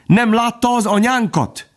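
high, piping duckling cry; young ducklings calling. A narrator's reading. Ducklings calling for their mother, high piping cry. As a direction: call out like a small lost duck. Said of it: "kiáltották a fiatal kacsák".

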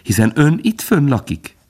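lifted, amiable tone; friendly. A narrator's reading. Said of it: "felelte Bambi barátságosan". (barátságos, megemelt hangon)

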